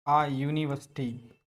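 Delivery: "a university" drawn out slowly as aa yu-ni-vas-tee; "university" stretched, ending in -vas-tee; slow model pronunciation. Shown as a demonstration. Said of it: "इसका pronunciation होता है यूनिवर्सिटी".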